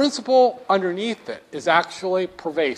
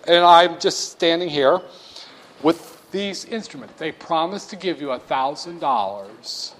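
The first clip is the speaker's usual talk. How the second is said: lightly voiced pushy salesman; salesman pitch. Professor playing a Treasury salesman to a buyer, hammed pitch. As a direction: sell it like a huckster at a table.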